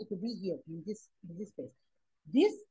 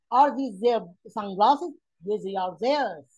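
slow question, then a slow answer; slow model question; 5 dB louder, slower than usual. Shown as a demonstration. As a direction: read the question slowly for learners. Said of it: "Can say".

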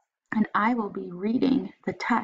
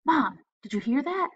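put-on high, worried child voice; scared boy; 6 semitones higher than usual. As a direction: ask it nervously, high. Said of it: "said his mother".

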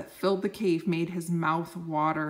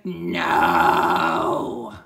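loud refusal; 13 semitones lower, 8 dB louder than usual. Acted. Starving dragon refuses food again.

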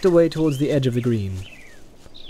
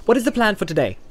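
Pippin voice; 9 semitones higher, faster than usual. A narrator's reading.

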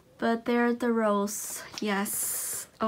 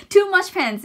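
high, loud laughing repeat; laughing self-correction; 8 semitones higher, 7 dB louder than usual. Shown as a demonstration. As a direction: laugh through the wrong phrase. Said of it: "too many pens".

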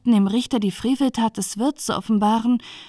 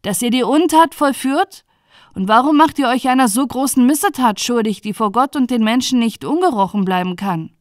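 indignant judge demanding an answer; 3 semitones higher, 5 dB louder than usual. Acted. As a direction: press the accused with raised voice. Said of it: "sprach der Richter".

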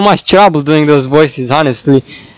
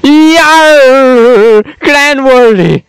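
pirate voice; 6 semitones higher, much slower than usual. Acted. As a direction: bellow it like a pirate captain. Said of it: "Pirate voice".

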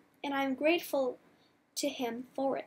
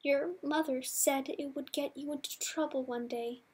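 voice breaking; 3 dB quieter than usual. Acted. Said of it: "My voice breaks".

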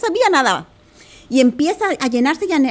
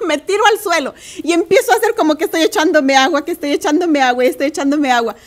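laughing retelling. Real, not acted. Laughing while retelling her reaction.

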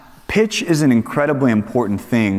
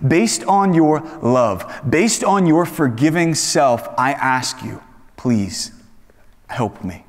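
humble plea; slower than usual. Retold or imitated. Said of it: "He is saying".

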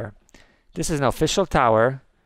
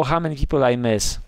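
normal talking voice

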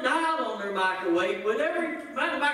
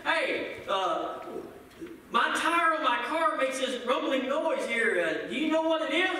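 higher, mock puzzled question; asking friend; 4 semitones higher than usual. Friend asking about the rumbling tire: higher, puzzled. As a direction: play a confused driver asking.

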